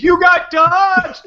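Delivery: high, loud, drawn-out holler; imitated scream. Driver to the kid he hit, high mock scream. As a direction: scream it slowly as a mock catchphrase. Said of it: "You just screamed".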